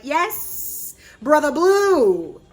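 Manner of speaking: drawn-out, loud swoon over her crush; swooning fan. Retold or imitated. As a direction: moon over him like a lovesick fan.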